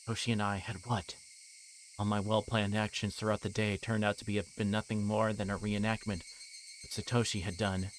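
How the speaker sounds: low, even narrator voice for the novel; story narration. A narrator's reading. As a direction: read it out like the book's narrator. Reads visual novel narration.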